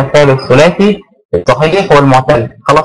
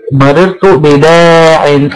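drawn-out example; much slower than usual. Shown as a demonstration. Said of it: "teacher demos the example phrase".

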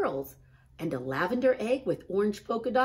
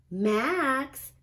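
higher, louder call of his name; big sister Ruby; 8 semitones higher, 6 dB louder than usual. A narrator's reading. Ruby scolding Max, a higher and louder big-sister call. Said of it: "said Ruby".

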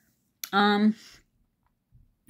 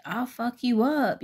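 slow threat; 7 semitones higher than usual. Retold or imitated. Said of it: "the domineering one goes".

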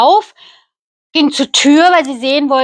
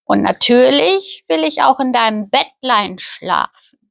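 sly frog. Acted. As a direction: turn her treasures down, then bargain. Frog refuses, sets conditions.

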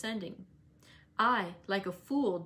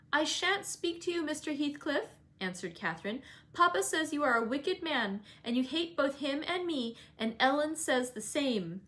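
put-on higher, indignant young girl; defiant girl; 6 semitones higher than usual. Catherine refusing to speak to Heathcliff, high and indignant. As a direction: refuse him with childish defiance.

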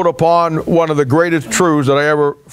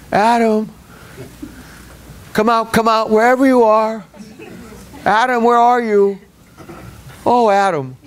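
higher, teasing hide-and-seek call; mock seeking God; 5 semitones higher than usual. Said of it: "we like to pretend that God is walking".

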